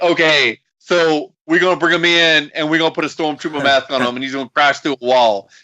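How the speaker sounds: lightly voiced booker pitching an idea; a hint of Dusty selling the plan; Dusty Rhodes voice. Host voicing booker Dusty pitching the gimmick, lightly imitated. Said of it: "I'm gonna use his voice".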